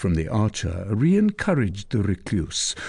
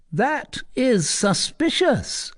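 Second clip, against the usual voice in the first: much higher, slow verdict; suspicious provost; slower than usual. Acted. Provost to his men, suspicious and slow. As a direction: cast doubt on her.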